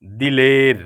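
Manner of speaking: دلیر with i under the dal, as dilēr; دلیر spoken as dilēr; correct pronunciation. Shown as a demonstration. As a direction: say دلیر as dilēr, not dalēr. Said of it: "کیا ہے؟".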